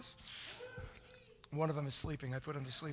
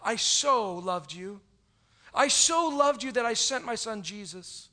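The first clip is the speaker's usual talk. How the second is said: earnest God's voice. Acted. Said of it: "this is what He says to you".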